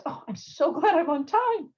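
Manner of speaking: out of breath. Pretend. Late candidate sits down in the chair, mildly out of breath. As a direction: gasp it out as if you just ran in. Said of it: "you're a little out of breath".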